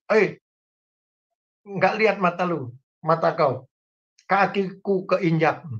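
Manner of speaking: man whose foot was stepped on, confronting him in mock loud voice; blunt loud Batak. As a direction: play the hot-headed Batak snapping back. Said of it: "berbicaranya keras".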